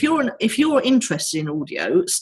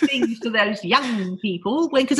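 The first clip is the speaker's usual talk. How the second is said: granny voice; 3 semitones higher than usual. Pretend. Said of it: "Is that your granny voice?".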